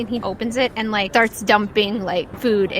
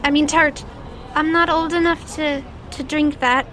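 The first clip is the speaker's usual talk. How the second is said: put-on polite child; 6 semitones higher than usual. Child declines the drink.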